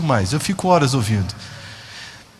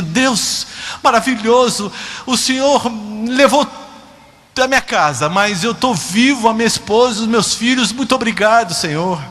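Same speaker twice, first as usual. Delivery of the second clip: imitating grateful survivors in raised pitch; fervent thanksgiving; 5 semitones higher than usual. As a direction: cry out thanks to God, with emphatic pauses. Voicing grateful survivors thanking God. (agradecimento fervoroso, imitando sobreviventes)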